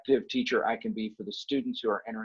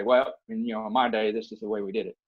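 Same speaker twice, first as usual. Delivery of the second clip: put-on Texas accent. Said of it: "I always say that with a Texas accent".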